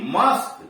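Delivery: मास्क said mosk, que as k; final k sound. Shown as a demonstration. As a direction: end मास्क on a clean k. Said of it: "क्यूयूई का उच्चारण क होता है".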